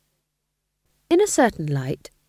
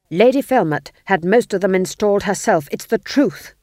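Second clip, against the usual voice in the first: louder, pleading protest; desperate; 3 semitones higher, 8 dB louder than usual. A narrator's reading. Ghost king protesting desperately to Nanny, loud. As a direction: insist anxiously on your innocence. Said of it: "said the king desperately".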